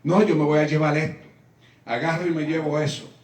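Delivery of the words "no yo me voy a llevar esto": worried inner voice. Retold or imitated. Inner worried thought in subway.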